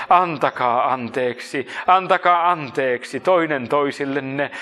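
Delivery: slow, drawn-out appeal; mild cried-out plea. Acted. Voicing the church's call to forgive, slow plea. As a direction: stretch the words out without shouting. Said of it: "Kristuksen ruumis voisi huutaa".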